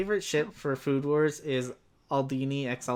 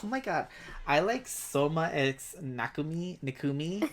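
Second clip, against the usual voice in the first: fangirl voice. Acted. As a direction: swoon over the ship like a fangirl. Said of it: "this is my fangirl voice".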